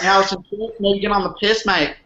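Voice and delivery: attempted casual Australian accent. Shown as a demonstration. Guest asking host for a beer on request, Australian accent. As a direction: put on your best Australian mate voice. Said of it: "Ask me for a beer in an Australian accent".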